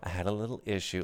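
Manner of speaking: softly mimicking a casual understatement; minimizing. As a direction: drop the volume and play it down. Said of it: "I love how you minimalize it".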